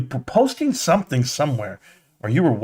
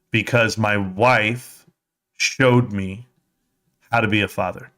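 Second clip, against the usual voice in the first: sincere; 5 semitones lower than usual. Real, not acted. Heartfelt tribute to his wife.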